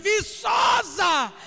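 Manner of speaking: loud, slow, high shouted proclamation; proclaiming to the congregation that this church has only palm trees, shouted slowly; preaching at full force. Real, not acted. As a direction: hammer each word out to the church.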